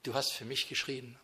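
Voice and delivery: hushed, grateful prayer to the Lord at the cross; moved prayer. Pretend. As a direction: marvel quietly at what the Lord endured. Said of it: "Und da denke ich".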